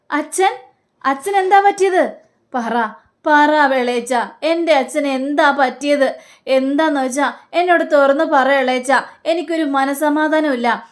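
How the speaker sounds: high, pleading anxiety; anxious. Retold or imitated. Sruthi begs her uncle for news of her father, anxious. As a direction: tell me what happened to my father. Daughter hears about father.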